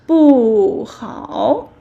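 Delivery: loud falling 不 before 好; falling tone kept. Shown as a demonstration. Teacher shows 不 before third tone, still falling. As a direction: drop the pitch firmly on 不 in 不好. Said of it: "it's also falling tone".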